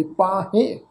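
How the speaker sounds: ਪਾਹੇ ending in a nasal e; nasalised ending. Shown as a demonstration. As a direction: finish ਪਾਹੇ through the nose, like "pahen". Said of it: "ਇਸ ਢੰਗ ਨਾਲ ਹੀ ਆਏਗੀ".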